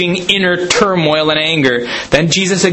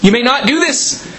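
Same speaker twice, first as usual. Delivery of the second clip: a higher-pitched, lightly voiced Martha protesting; Martha objecting; 6 semitones higher than usual.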